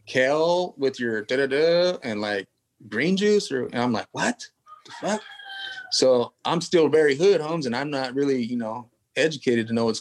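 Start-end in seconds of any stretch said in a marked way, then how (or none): 0.1-3.5 mock health-food caterer. 4.1-5.2 high, hushed, incredulous; a taco guy who can't believe he's offered kale; higher, hushed disbelief; stunned disbelief. Retold or imitated.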